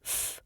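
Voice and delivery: F as a soft, voiceless puff; just breathe out the sound of F; isolated f sound. Shown as a demonstration. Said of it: "for an F sound".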